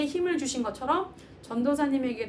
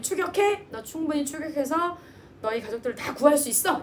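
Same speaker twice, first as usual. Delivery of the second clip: urgent command; 3 semitones higher, 3 dB louder than usual. Retold or imitated. God commanding David to pursue.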